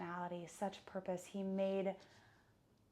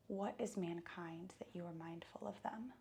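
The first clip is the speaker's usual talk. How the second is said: hushed whispered quote; whispering; 7 dB quieter than usual. Acted. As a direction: breathe the verse in awe. Quoting the psalm again, hushed.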